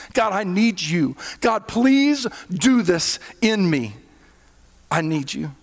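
a gentle acted prayer, unhurried; humble prayer. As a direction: pray it from need, slowing down. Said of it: "we go to God and we say".

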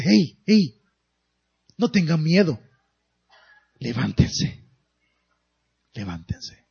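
low, gentle, calming voice of Jesus; Jesus comforting. Retold or imitated. Jesus to the frightened disciples, low and calming. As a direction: ease them off the ground, soft and low.

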